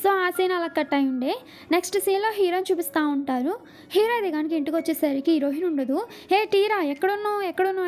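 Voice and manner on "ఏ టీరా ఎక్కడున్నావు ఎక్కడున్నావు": higher-pitched mild mock call; retold calling out. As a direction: call out for someone, only half-raising the voice. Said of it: "చాలా గట్టి గట్టిగా పిలుస్తూ ఉంటాడు".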